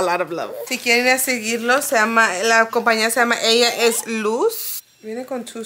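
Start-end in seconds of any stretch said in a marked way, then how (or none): 0.0-0.5 soft and tender. Real, not acted. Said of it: "repeated softer".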